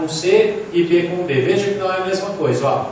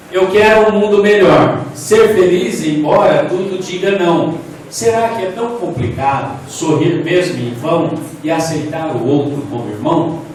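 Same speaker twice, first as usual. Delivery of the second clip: reads the poem out louder, with feeling; poem reading; 4 dB louder than usual. Shown as a demonstration. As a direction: recite it like a poem to the class. Reads an example poem aloud.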